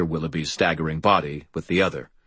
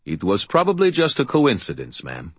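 put-on light Russian accent; 3 semitones higher than usual. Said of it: "his Russian accent less heavy".

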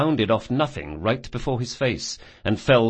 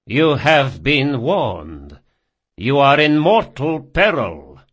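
forced casual; 5 semitones higher, 7 dB louder, slower than usual. A narrator's reading. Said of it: "striving for a casual tone and not entirely succeeding".

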